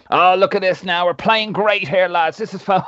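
high-pitched, over-the-top gushing commentator; mocking gushing pundit. Podcaster mocking Niall Quinn's fawning commentary, high and gushing. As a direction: send up a giddy TV pundit cooing over the team. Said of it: "he's just like".

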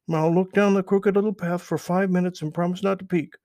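high, loud, eager rabbit question; curious Peter Rabbit. Acted. Peter asks Mister Toad, high and eager. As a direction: pitch up high and push it out eagerly.

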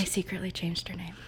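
quick confessing whisper. Real, not acted. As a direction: whisper it like a secret. Confessing a secret aside.

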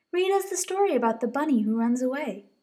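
little bunny. Acted. Posy asks.

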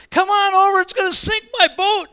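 high, loud holler to friends; acted urgent shout to buddies; calling out. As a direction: yell for help across the water. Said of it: "He calls his buddies".

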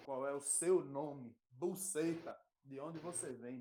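deadpan answers to mock questions; comic call and response. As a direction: play the joke interview. (pergunta e resposta cômica)

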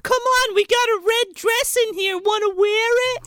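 very high, sing-song creature voice; luring creature. Pretend. Dryer monster tempting the wife with a red dress, very high. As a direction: coax her in like a monster.

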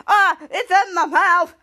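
slow, loud disgusted wail. Retold or imitated. Captain Man freaked out.

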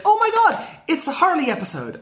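squealing high with fan excitement; excited squeal. Retold or imitated. Fan spotting her favorite villain, high excited squeal. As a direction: gasp it out like a thrilled kid fan. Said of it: "And then it was like".

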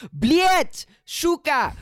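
high shouted Russian curses; Russian gamer yell. Retold or imitated.

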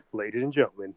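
high, slow, booming announcer parody; ring announcer. Acted. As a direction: boom it like an arena announcer. Mock ring announcer intro.

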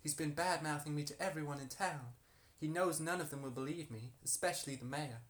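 put-on harlot character in an American accent. Harlot answering why she is accused, put-on American accent. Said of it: "This is very American".

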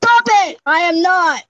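high, loud playful objection; indignant protest. Real, not acted. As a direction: squeal back at a teasing friend. Teased, protesting to friend.

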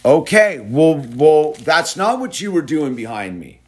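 stern dad scolding; firm fatherly telling-off. Real, not acted. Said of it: "had to get all dad on him".

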